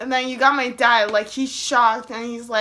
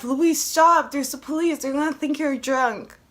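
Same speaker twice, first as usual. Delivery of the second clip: higher, alarmed friend's warning; imitated urgent warning; 4 semitones higher than usual. Friend warning her about the police, imitated alarm. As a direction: warn a friend urgently, pitched up.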